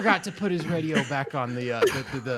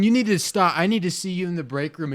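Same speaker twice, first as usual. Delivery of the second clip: loud, raised mock scolding; retold pissed-off coworker; 5 semitones higher, 6 dB louder than usual. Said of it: "They're getting pissed".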